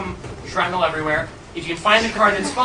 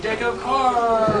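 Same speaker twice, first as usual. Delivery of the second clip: laughing; 4 semitones higher, 5 dB louder, much slower than usual. Real, not acted. Laughs at own reveal.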